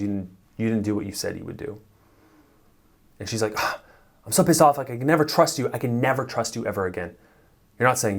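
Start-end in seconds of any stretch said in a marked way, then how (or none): 3.6-7.2 a hammed-up furious girlfriend; angry girlfriend. Coach voicing an upset girlfriend, mock anger. Girlfriend quoted raging at him.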